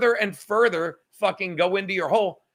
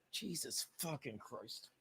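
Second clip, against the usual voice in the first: laughing; 7 semitones lower, 23 dB quieter, slower than usual. Real, not acted. Laughing at Johnny Gold's comment.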